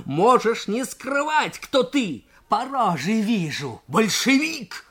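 high, shrill, stamping tirade; furious accusation. Acted. Junker stamping his feet at Nikolai, shrill furious shout. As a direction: build to a shrieking accusation.

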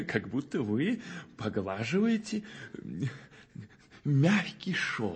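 slow, dreamy laughing delight. Acted. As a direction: savor it with a laugh. Admiring smooth carving. (мечтательно со смехом)

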